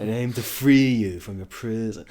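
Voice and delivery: imitating a film bad boy's British accent; lightly hammed-up British suitor; put-on British accent. Bad boy at Bella's window, in a put-on British accent.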